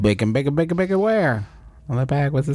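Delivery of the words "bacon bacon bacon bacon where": excited dog voice. Pretend. Dog sniffing for bacon.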